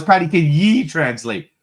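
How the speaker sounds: light put-on Scottish accent on ye; mock Scottish accent. Host mimicking Scottish co-host in a playful Scottish accent. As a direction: tease a Scottish friend in his accent. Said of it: "I refuse to speak his Scottish".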